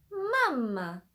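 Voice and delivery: "mama" with a cry in the voice. Shown as a demonstration. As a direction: put a little sob into "mama". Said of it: "kind of a cry in there".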